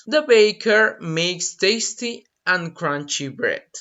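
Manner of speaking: slow, clear echo of the sentence; unhurried repetition; slow repeat. Shown as a demonstration. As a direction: repeat it slowly for the class.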